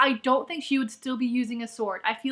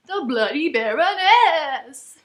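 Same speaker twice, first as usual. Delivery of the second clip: mock proclamation; 5 dB louder, much slower than usual. Mock announcing the character's title.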